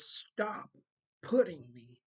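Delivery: a preacher voicing God's stern rebuke; sharp rebuke. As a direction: push the rebuke out hard. God rebukes hypocrites, quoted.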